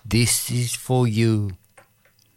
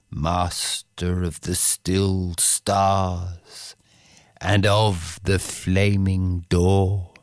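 slow, lilting poetry reading; recited poetry, unhurried and musical; poem recitation. Acted. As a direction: read it like a bard with the Irish refrain. Recites second Yeats poem.

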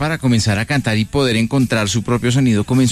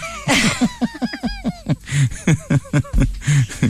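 high, long peal of laughter; real, drawn-out laugh; 12 semitones higher, 3 dB quieter than usual. Real, not acted. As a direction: burst into high-pitched giggles. Host laughs after asking more imitations.

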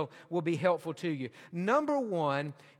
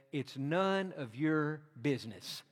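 softer, slow, measured reply; mock-kindly; 3 semitones lower, 5 dB quieter, slower than usual. Jesus paraphrased answering Peter's question, mock-kindly. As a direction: say it gently and deliberately, letting it land. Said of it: "Jesus very kindly responded".

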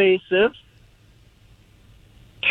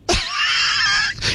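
breathy laugh. Real, not acted. Caller laughs at own joke.

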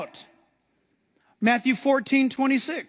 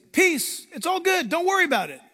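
acted reassurance; 8 semitones higher than usual. Jesus acted, reassuring Peter in boat.

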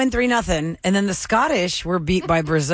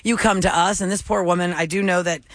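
radio promo. Acted. Radio host teaser read.

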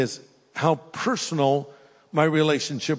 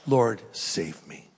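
slow, quiet, earnest plea; a quiet, slow cry for help; 5 semitones lower, 3 dB quieter, slower than usual. Shown as a demonstration. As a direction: pray it slowly, from the heart. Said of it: "You need to cry out".

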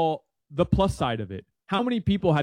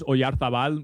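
Spanish accent. Real, not acted. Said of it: "I'm saying it with a Spanish accent".

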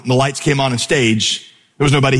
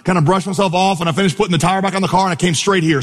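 lightly raised, hurried storytelling of an absurd excuse; tall-tale excuse; 5 semitones higher than usual. Pretend. Pastor playing the late preacher spinning a wild excuse. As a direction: sell the ridiculous story straight-faced. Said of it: "that's why I'm late".

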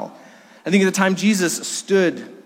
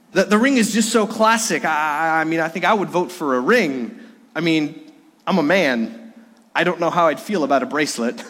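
a hint of a German basketball player's accent. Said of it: "he said it with a German accent".

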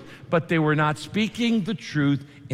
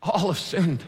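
gentle, sorrowful and matter-of-fact; broken-hearted. Shown as a demonstration. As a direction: say it like it grieves you. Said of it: "say it with a broken heart".

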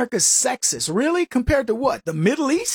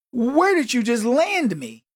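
higher, drawn-out wonder; retold amazement; 4 semitones higher, slower than usual. European newcomer stunned by endless store choices, amazed. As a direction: imitate an overwhelmed newcomer, stretching the words. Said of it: "He was blown away".

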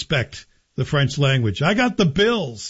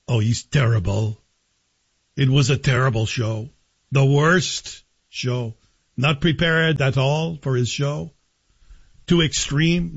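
put-on light Quebec French accent on the old lady's verdict; a hint of a Québécois grandmother, slow and dismissive; mother-in-law's Quebec accent. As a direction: lightly voice an elderly Quebec mother-in-law scolding. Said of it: "making fun of my mother-in-law's accent".

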